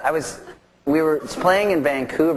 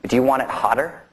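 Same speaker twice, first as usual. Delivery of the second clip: retold line in a Cockney accent; Cockney accent, lightly acted; thick Cockney accent. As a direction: imitate a Cockney man asking casually. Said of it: "in this real thick Cockney accent".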